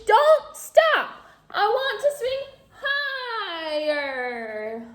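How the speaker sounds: insistent doll. A narrator's reading. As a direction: demand it even harder.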